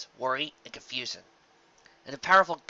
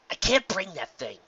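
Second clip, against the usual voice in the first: a bit higher, worried voice; fretting to herself; Rainbow Dash thinking aloud; 6 semitones higher than usual. A narrator's reading. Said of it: "she thought aloud".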